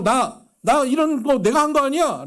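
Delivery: high, loud self-defending cry; mock someone insisting they're innocent; indignant protest. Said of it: "스스로". (높고 크게 억울함을 외치는 흉내)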